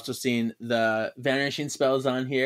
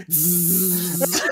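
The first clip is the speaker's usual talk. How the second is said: drawn-out buzzing zap noise; imitated buzz; 3 semitones higher than usual. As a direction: make a sustained electric zzz.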